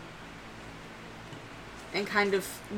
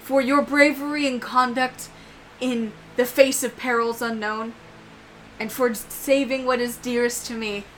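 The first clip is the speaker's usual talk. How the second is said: solemn knighting; 4 dB louder than usual. Acted. Knight dubbing Dan before the group, solemn formal voice. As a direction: proclaim it like a ceremony. Taps him on both shoulders and go.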